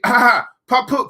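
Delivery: hammed-up fake sob over poo, poo; mock crying. Mocking people who doubt sarcasm pays, in fake sobs. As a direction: pretend to whimper, mocking.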